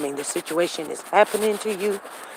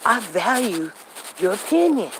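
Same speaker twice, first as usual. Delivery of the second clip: a fed-up outburst to a stubborn friend; mock exasperation; 7 semitones higher than usual. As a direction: throw up your hands in mock exasperation.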